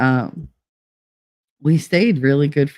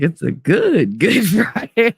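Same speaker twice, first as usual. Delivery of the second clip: first "good" drawn out, laughing through it; playful pun; 5 semitones higher, slower than usual. Retold or imitated. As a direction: lean slowly on "good" with a chuckle. Mocking pun on Good Friday.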